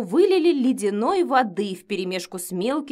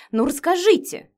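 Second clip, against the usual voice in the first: higher, louder insistent plea; pushy "Ну расскажите"; demanding; 8 semitones higher, 5 dB louder than usual. A narrator's reading. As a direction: demand an answer. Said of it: "потребовала я".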